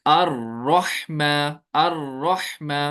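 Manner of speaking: अर्रहमा with a short light trill on र; light rolled r. Shown as a demonstration. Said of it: "ये रह मैंने किया ना, ये दुरुस्त है". (अर्रहमा में र हल्का कंपन के साथ, धीरे)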